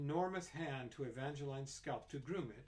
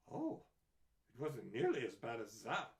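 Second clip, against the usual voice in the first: breezy doctor; 2 semitones lower, 3 dB louder than usual. A narrator's reading. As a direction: wave it off lightly. Doctor dismisses worry.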